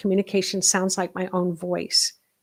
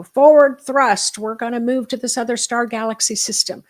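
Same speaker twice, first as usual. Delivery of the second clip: hollered command; 6 dB louder than usual. Retold or imitated. Playing captain hollering orders at Spock from the helm. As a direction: bark it like a starship captain. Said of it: "holler back at Spock".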